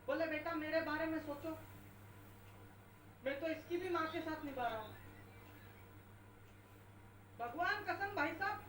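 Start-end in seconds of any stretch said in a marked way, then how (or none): 0.3-4.9 a touch of lowered, pained pleading; lightly voiced weary old man sighing; hint of an emotional father-in-law. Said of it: "ससुर जी की आवाज emotional हो गई".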